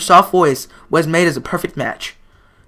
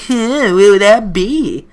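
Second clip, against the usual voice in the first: teasing laugh; 4 semitones higher, 5 dB louder, much slower than usual. Real, not acted.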